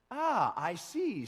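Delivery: "Ah, I see" drawn out slowly as the doctor; slow, punning eye doctor; joking doctor. Acted. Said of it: "said the doctor".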